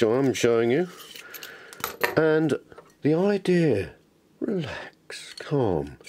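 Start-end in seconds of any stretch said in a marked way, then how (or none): 4.4-6.0 a hushed whisper to steady his own hands; whispered to himself. Real, not acted. Maker fitting a copper pipe calms himself in a whisper. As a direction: whisper it, just calming yourself down.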